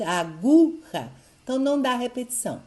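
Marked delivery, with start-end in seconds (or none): 0.0-1.1 "aguja" with GU loud and drawn out; stress on GU. Shown as a demonstration. Teacher showing the strong second syllable, stressed GU in "aguja". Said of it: "a forte".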